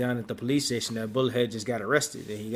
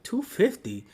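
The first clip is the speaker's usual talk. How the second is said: mock indignant; 7 semitones higher than usual. Steve refusing to pay, high.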